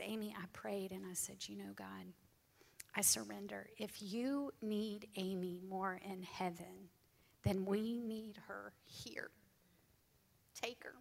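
barely holding it together as she tells it; choked up. Real, not acted. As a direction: voice thinning to a broken whisper. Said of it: "I apologize for getting emotional".

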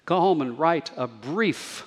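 brief given weight; stress on brief. Shown as a demonstration. Preacher giving playful homework, stress on brief. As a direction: lean on the word brief. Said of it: "emphasis on brief".

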